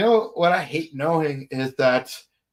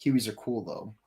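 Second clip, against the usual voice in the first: put-on laid-back Australian accent; chill Australian. Podcaster posing as an Aussie fond of the outback, relaxed Australian accent. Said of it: "a lot more chill of a voice".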